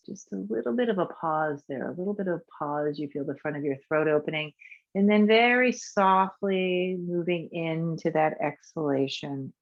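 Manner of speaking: calm, unhurried guiding voice for a breath practice; guided meditation. Acted. Teacher guiding a class through breath practice, soothing. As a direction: lead the breathing gently and evenly.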